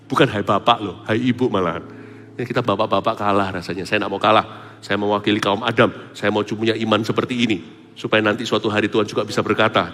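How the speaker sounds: usual speaking voice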